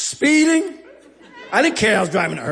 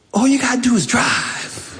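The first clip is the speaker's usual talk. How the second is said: slow, drawn-out hustler's pitch; sly slow offer. Retold or imitated. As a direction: dangle the offer slowly.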